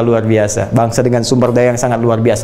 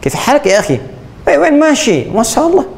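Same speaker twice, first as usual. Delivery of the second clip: Arab accent; 11 semitones higher than usual. Shown as a demonstration. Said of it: "kayak orang Arab".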